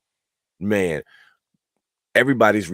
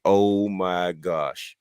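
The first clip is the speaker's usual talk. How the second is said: slow amazed gasp; much slower than usual. Retold or imitated. Host reacts to The Rock.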